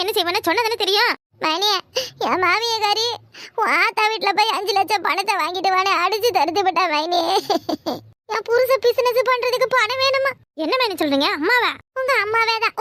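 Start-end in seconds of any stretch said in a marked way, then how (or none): 1.4-10.3 sobbing through a put-on complaint; staged sobbing about the mother-in-law; fake crying. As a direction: cry out the story to win her over. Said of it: "ஏன்டி இப்படி அழுவுற".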